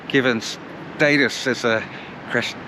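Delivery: stumbling over words with cold lips; cold numb lips. Real, not acted. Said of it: "I can't say it. It's too cold, my lips won't work".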